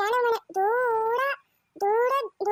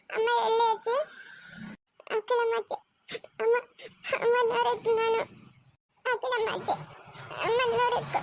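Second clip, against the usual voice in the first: crying. Acted. Child crying for mother.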